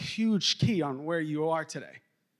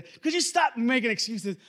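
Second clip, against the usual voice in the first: lightly acted parental telling-off, a bit higher; scolding parent; 4 semitones higher than usual. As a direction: mildly mimic a fed-up parent. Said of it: "my parents used to".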